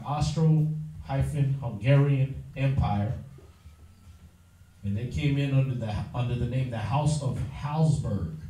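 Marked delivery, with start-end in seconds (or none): 0.0-3.1 drawn out. Shown as a demonstration. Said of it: "The Austro-Hungarian Empire".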